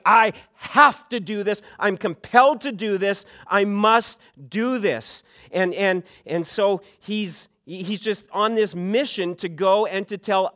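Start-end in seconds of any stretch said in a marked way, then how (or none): 0.1-5.2 compelling. Retold or imitated. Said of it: "a strong, compelling".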